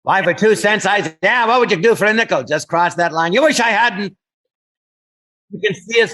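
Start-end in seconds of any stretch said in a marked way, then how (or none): 0.0-4.2 mock tough-guy banter, pitched higher; hammed-up old-movie hoodlum; forties gangster voice. Trading forties gangster lines with a comedy partner, mock tough. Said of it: "we loved old movies from the forties".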